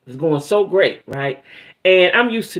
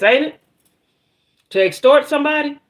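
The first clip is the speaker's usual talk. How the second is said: incredulous; 9 semitones higher, 3 dB louder than usual. Real, not acted. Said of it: "incredulous about extortion".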